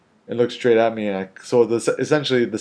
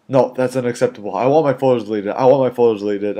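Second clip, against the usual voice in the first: firm, louder mock outrage; retold indignant demand; 3 semitones higher, 6 dB louder than usual. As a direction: imitate an upset woman insisting. Retelling an angry woman's demand.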